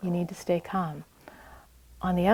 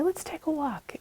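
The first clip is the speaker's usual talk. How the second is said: gentle invitation; 9 semitones higher than usual. Retold or imitated. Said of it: "So if you say".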